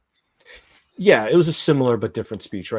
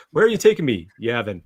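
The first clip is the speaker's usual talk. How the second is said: hopeful naive question; 4 dB louder than usual. Retold or imitated. Voicing doomed Lonnie being taken away, naive question. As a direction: ask it brightly, pitched up. Voices doomed character asking.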